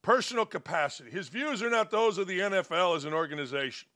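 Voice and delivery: rattling off the official statement fast; fast, dismissive read of the league's words; mock statement reading. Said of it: "Beanie says".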